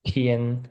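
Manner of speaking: "Tian" with an aspirated T, tongue at the teeth; level, aspirated "Tian"; tongue between the teeth. Shown as a demonstration. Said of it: "A língua fica no meio do, dos dentes".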